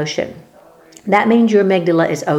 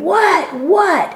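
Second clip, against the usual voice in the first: retold mock scream; 9 semitones higher than usual. Crying out to God in confusion, mild mock scream. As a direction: imitate a scream with pitch, holding back the volume. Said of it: "I just kept screaming".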